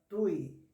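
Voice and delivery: "tui" numa só emissão de voz; ditongo numa sílaba. Shown as a demonstration. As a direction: diga "tui" de uma vez, sem separar o i. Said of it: "não pode separar o i". ("tui" com u e i juntos)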